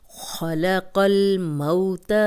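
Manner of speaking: قاف ملا کے: خلق الموت slowly, the ق heavy and joined to ل; slow recited demo. Shown as a demonstration. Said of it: "ملا کے پڑھی جاتی ہے". (خلق الموت آہستہ، موٹا قاف لام سے ملا کے)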